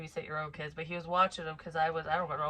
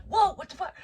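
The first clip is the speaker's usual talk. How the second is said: high, loud startled outburst; jolted yelp, acted out in retelling; 12 semitones higher, 7 dB louder than usual. Parents woken by their daughter's scream, acting startled. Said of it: "scare the motherfucking shit out of us".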